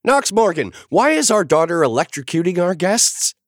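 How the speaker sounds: shriek. A narrator's reading. Naomi shrieking at Knox about the electrocuted guests. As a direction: shriek at your husband in alarm. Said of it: "Naomi shrieked".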